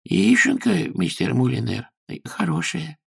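high, softening timid voice; timid landlady. Acted. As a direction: offer it nervously.

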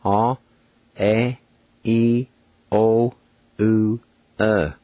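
six long vowels said one at a time; Cherokee vowel demo. Shown as a demonstration. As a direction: hold each vowel out, a clear pause after each. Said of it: "here are the six Cherokee vowel sounds".

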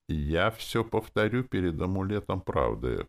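ordinary delivery, nothing marked

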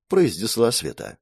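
ordinary delivery

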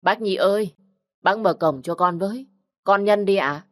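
put-on young man calling to the old doctor at the gate. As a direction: call across the yard politely. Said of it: "ngoài cổng tiếng gọi".

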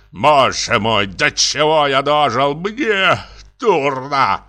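high, swooning lament; overwrought dismay. Acted. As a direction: wail it as if about to faint. General overcome, feels faint.

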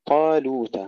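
طالوت with full heavy طا and thin لو; heavy-then-light syllables in طالوت; heavy taa, light laam. Shown as a demonstration. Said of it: "طا مفخمة، لو مرققة".

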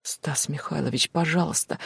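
hushing plea. Acted. Glasha hushes shouting Stas.

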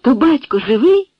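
startled hopeful exclamation; eager cry. A narrator's reading. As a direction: burst out with sudden hope. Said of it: "скрикнула".

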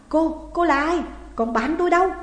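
Dự terrified, stammering into the phone; trembling, frightened. Acted. Dự asks the stranger where his friend is, panicked. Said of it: "rung giọng hỏi lại".

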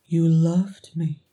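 slow, reverent as a prayer. Acted. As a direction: say it slowly, in awe. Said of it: "reverent as a prayer".

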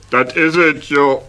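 ordinary delivery

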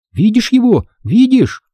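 put-on a boy breathless to show his proof; excited whisper. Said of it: "возбуждённо прошептал тот".

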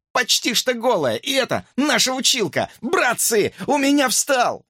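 high falsetto building to a shout; hamster thrilled. A narrator's reading. Hamster boasts to his pals, high excited shout.

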